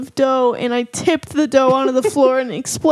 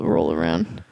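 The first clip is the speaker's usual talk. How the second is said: Southern accent; 5 dB quieter, slower than usual. Real, not acted. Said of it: "I don't know why I keep doing this accent".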